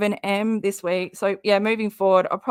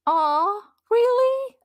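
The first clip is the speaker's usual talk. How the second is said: surprised aw; slower than usual. Real, not acted. Reacting to a chat message.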